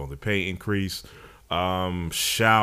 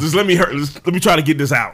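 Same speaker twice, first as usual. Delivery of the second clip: getting emotional; 9 semitones higher, 7 dB louder, faster than usual. Real, not acted. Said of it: "I'm getting emotional".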